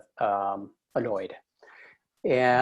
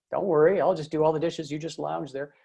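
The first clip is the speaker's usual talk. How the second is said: raised, louder mock-helpful jab that fades to a mutter at the end; offhanded sarcasm; 4 semitones higher, 3 dB louder than usual. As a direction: needle her with fake generosity. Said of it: "little offhanded comments".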